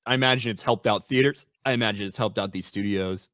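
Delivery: talking through hiccups; words broken by hiccups. Real, not acted. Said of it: "Excuse me, I'm hiccuping".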